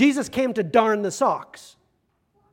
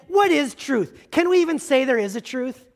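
cynical; 4 semitones higher than usual. Pretend. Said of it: "him cynically, skeptically saying".

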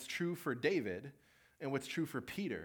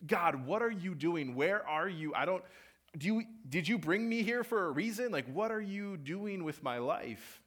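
higher and louder, frustrated shouting; yelling at God; 6 semitones higher, 5 dB louder than usual. Retold or imitated. Angry camper yelling at God alone in nature, high and loud. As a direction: demand answers from God. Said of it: "I'm gonna yell at him".

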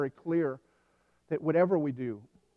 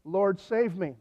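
mildly raised mock cry for help; retold cry out to God, pitched up; 4 semitones higher, slower than usual. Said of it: "crying out to the Lord".

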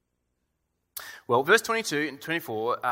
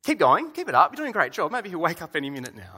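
sarcastic cheering, a bit louder; mock encouragement; 4 semitones higher, 4 dB louder than usual. Elijah taunting the prophets, mock cheering. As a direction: cheer them on with a sneer. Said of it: "the sense of what Elijah's doing".

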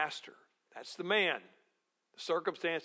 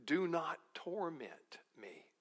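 slow, whispered plea; pleading whisper; 6 dB quieter, slower than usual. Acted. Demon begging Jesus in a slow whisper. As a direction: beg in a hushed whisper. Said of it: "The demon-possessed man cried out".

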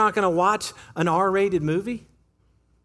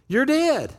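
"You're dead" higher and punched on "dead"; punchy repeat; 5 semitones higher than usual. Shown as a demonstration. Preacher relishing the verse, higher and punchy. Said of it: "I love that".

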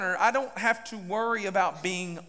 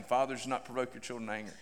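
quiet quote; 8 semitones lower, 7 dB quieter, faster than usual. Acted. Quoting note quietly.

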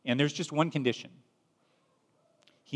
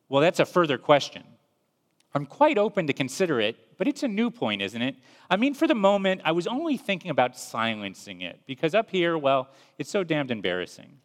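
higher, fussy backpedalling voice; an embarrassed ghost hedging, pitched up; flustered ghost; 5 semitones higher than usual. Acted. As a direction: squirm out of it politely. Ghost dodging the angel's offer.

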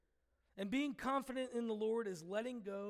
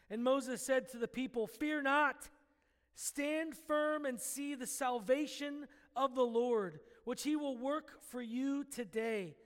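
scripture reading. Acted. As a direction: proclaim the passage to the congregation. Reads Exodus passage aloud.

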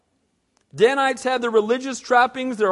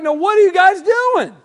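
panicked priest; 5 semitones higher than usual. Retold or imitated. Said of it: "He's like".

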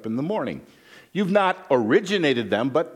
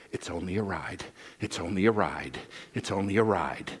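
soft murmured repetition, under the breath; retold whisper; 6 semitones lower, 7 dB quieter than usual. Son on a ride softly whispering to himself. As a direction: mutter it quietly to yourself. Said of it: "whispering under his breath".

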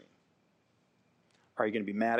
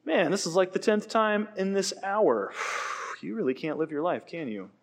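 mock exasperation; 3 semitones higher than usual. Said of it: "God is not the kind of God that".

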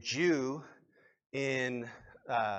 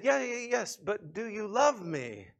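lightly acted, higher-pitched pressing husband; insistent husband; 6 semitones higher than usual. Husband asking his wife for a real answer, mildly insistent. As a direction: brush it aside and press the question.

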